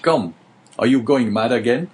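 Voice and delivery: mock him as a madman; gruff jailer. The jailer questions Dante's strange look, lightly voiced and suspicious. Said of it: "for the jailer said".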